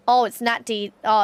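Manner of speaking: usual speaking voice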